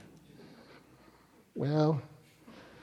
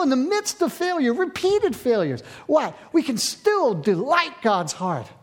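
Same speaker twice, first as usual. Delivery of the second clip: raised pitch, insistent sermon delivery; impassioned preaching; 6 semitones higher than usual. Real, not acted. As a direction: drive each repeated phrase home to the congregation. Preaches with mounting force.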